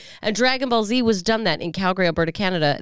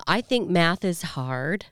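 slow, airy doll voice; deliberate doll-like line delivery; talking Barbie voice; slower than usual. Retold or imitated. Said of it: "her first statements were".

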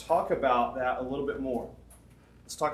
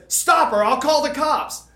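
much higher, louder frantic yell; shouted threat, last words slowed; retold shout; 12 semitones higher, 10 dB louder, slower than usual. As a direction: yell it at the intruder. Woman threatens in parking lot.

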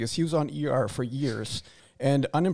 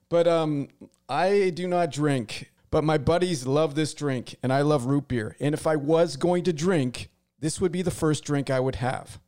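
mock promo read. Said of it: "the promo read or the commercial".

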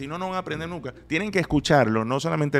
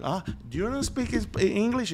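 tag; 8 semitones higher than usual. Retold or imitated. Acts out a store encounter.

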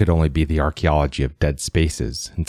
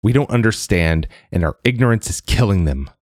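louder, higher insistence; voice rising; 4 semitones higher, 3 dB louder than usual. Acted. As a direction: push the words up with heat. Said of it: "Ada's voice rose".

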